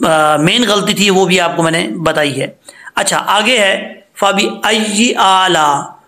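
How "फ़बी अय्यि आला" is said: "आला" with its ending left short; "फ़बी अय्यि आला" recited without stretching the last aa; wrong reading. Shown as a demonstration. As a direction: demonstrate the mistake in "फ़बी अय्यि आला", no long hold on "आला". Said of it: "ऐसे नहीं पढ़ना".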